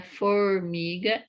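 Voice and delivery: "formiga" with a held curled-tongue R; American-like R in "formiga"; retroflex R. Shown as a demonstration. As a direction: linger on the R of "formiga". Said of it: "o outro som do R".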